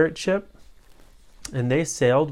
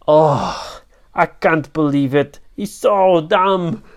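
exasperated pirate captain; 2 semitones higher, 9 dB louder, slower than usual. Acted.

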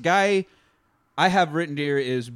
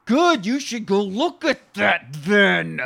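slow, higher dreamy drawl; 5 semitones higher, 4 dB louder, slower than usual. Retold or imitated. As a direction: float the words out, dazed and slow. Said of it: "Still using his dreamy voice, too".

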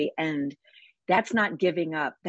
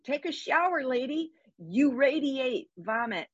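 high, teasing jeer at a stinky lady; lightly hammed-up scornful stranger; mock disgusted onlooker; 6 semitones higher than usual. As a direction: play a disgusted passerby, pitched up and mocking. Mocking imagined voices of onlookers.

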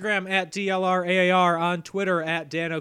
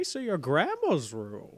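Jimmy Stewart; 3 dB quieter than usual. Acted. Still playing the late actor for laughs, drawling impression. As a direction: put on an old screen-legend voice. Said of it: "I'm picturing that voice".

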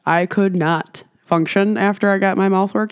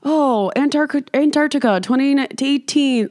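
mock dramatic; 5 semitones higher than usual.

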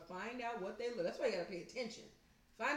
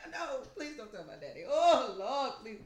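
mock panicked pleading; hammed-up begging that bursts out loud; losing it; 5 dB louder than usual. Child begging in the store, imitated frantic wail. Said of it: "she was in that store losing her shit".

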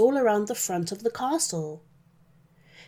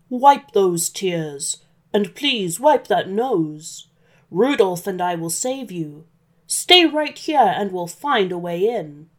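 reassuring Santa. Acted. Santa tells the crying girl he will save her, lightly voiced reassurance.

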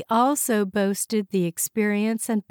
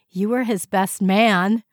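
louder, amused teasing; laughing; 2 semitones higher, 6 dB louder than usual. Acted. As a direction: tease the boss as if still laughing. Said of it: "laughed Sally".

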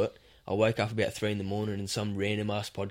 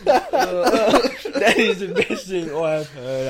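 slow, high, loud through laughter; laughing hard; 7 semitones higher, 6 dB louder, much slower than usual. Real, not acted. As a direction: drag the praise out while cracking up. Cracking up at the impression.

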